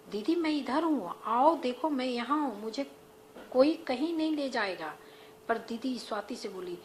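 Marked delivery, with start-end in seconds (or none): 0.1-5.0 louder, higher call across the room. Acted. Swati calls loudly to her frantic sister, raised voice. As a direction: reach her through her panic, raised voice.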